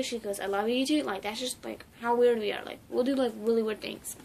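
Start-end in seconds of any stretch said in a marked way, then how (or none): 0.4-1.0 "love you" said as "lava you"; punning lava pronunciation. Retold or imitated. Grandma answering the grandchild's pun, "love you" as "lava you". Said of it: "but it was like".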